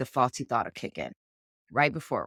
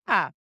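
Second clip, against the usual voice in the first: mock kiap yell; 4 semitones higher, 4 dB louder than usual. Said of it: "My kids would tease me and be like".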